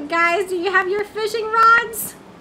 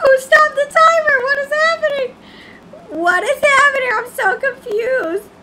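high, loud frantic disbelief; loud bewildered outburst; panicked excitement; 7 semitones higher, 6 dB louder than usual. Real, not acted. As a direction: yelp at the sudden chaos. Sudden game chaos.

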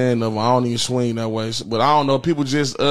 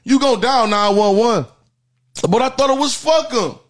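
high sing-song over music; high preachy rant; 10 semitones higher than usual. Acted. Calling out people who say fuck the police, high sing-song.

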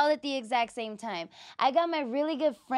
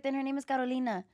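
rolled Spanish Carolina; Spanish accent; faster than usual. Retold or imitated. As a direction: say it the Latin way. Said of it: "without the Spanish accent".

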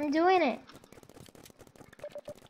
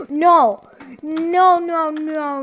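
shocked gasp; 3 semitones higher, 7 dB louder, slower than usual. Real, not acted. Sudden death in game.

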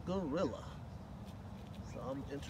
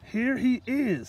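gentle gorilla; 8 semitones higher, 11 dB louder, much slower than usual. Acted. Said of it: "said the gorilla".

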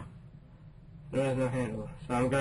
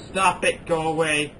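frightened pleading shout; scared horror game streamer; 3 semitones higher, 4 dB louder, slower than usual. Real, not acted. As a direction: beg the scary thing to go.

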